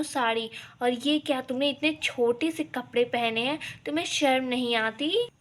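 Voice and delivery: stern rebuke over the outfit; mock outraged saas; scolding. Mother-in-law scolds bahu.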